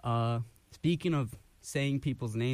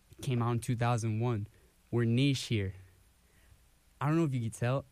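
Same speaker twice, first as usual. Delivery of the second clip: breathless from running; talking while catching breath. Real, not acted. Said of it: "I'm out of breath".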